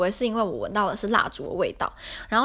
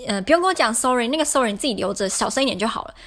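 imitating an annoyed roommate; 2 semitones higher, 4 dB louder than usual. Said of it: "室友就很生气的走进来".

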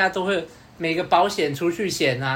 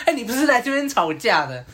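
inner voice; 7 semitones higher than usual. Retold or imitated. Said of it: "在对我喊叫说".

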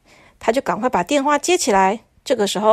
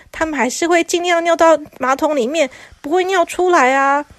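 higher, stammering envoy near tears; lightly voiced whimpering messenger; flustered messenger; 6 semitones higher than usual. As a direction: plead earnestly.

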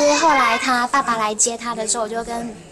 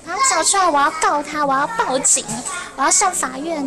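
higher-pitched imitation of a raging dad; retold angry outburst; 5 semitones higher than usual. Teacher imitating an enraged parent threatening court, mock fury. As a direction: act out the father's furious demands, voice up. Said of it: "暴怒。".

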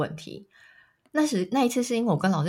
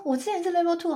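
higher, disbelieving "我之前是level two"; surprised protest; 10 semitones higher than usual. Retold or imitated. Protesting her test result to the tester, surprised. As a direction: insist in disbelief on the old level.

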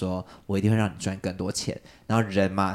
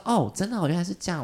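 higher, wide-eyed "oh really"; mock naive surprise; 9 semitones higher, faster than usual. Answering the feng shui master, mock naive surprise. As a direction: play along like you believe every word.

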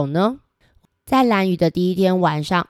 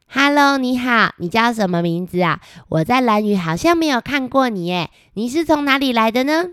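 put-on higher, bright friendly child; cheerful girl voice; 5 semitones higher than usual. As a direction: greet a new friend, high and eager. (高声热情的小女孩)

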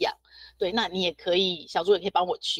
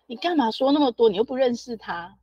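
louder, higher, fed-up mock daughter; imitating an annoyed teenager; impatient daughter; 3 semitones higher, 4 dB louder than usual. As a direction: brush off a nagging mother. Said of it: "女儿就很不耐烦说".

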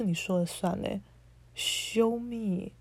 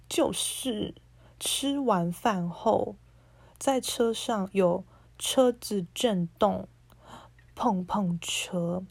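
slow insinuating read; much slower than usual. Retold or imitated. Reading the guy's creepy message to viewers, slow and insinuating. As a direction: drag each word out slowly, suggestive.

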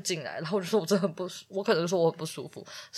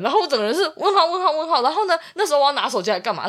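laughing; 9 semitones higher, 6 dB louder, faster than usual. Real, not acted. Laughing while telling the story.

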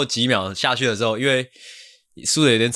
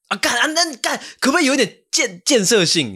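higher, louder exasperated rant; exasperated outburst; 14 semitones higher, 3 dB louder than usual. Real, not acted. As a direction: burst out in frustration at the team. Angry rant after imitation. (对队友失望地激动抱怨)

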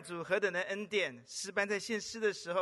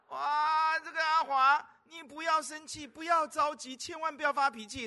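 father soothing; 7 semitones higher, 5 dB louder than usual. Retold or imitated. Retelling the father's soothing words.

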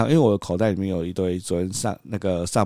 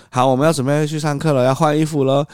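higher, louder chirpy parent voice; brightly rally the little one; chirpy announcement; 8 semitones higher, 4 dB louder than usual. Retold or imitated. Cheerful announcement to toddler. (高声欢快地对小孩宣布)

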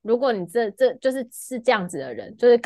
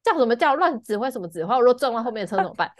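angry retort; 3 semitones higher, faster than usual. Retold or imitated. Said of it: "我就很生气".

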